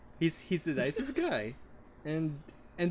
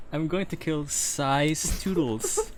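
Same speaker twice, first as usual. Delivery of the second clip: laughing; 5 semitones higher than usual. Real, not acted. Laughing through the pick.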